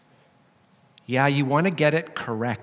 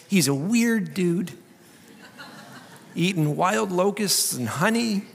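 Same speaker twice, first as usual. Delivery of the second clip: laughing; 6 semitones higher than usual. Real, not acted.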